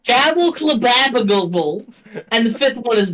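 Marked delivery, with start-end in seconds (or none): 0.0-1.9 "Gabble Clababagable" as a babbled tongue-twister; intended pronunciation. Shown as a demonstration. Game master demonstrates the fourth name, "Gabble Clababagable" sounded out. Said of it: "say how he said they are supposed to be pronounced".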